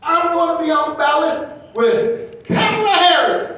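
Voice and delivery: high, loud re-enacted burst of excitement; excited announcement. Husband telling his wife big election news, excited shouting. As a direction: blurt it out high, building to a shout. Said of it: "I got all excited. I said".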